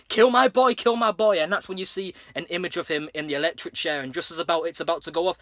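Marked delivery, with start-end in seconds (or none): 0.1-1.4 yelled high and loud. Retold or imitated. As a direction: bellow it like a mob joiner. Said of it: "Homer there saying".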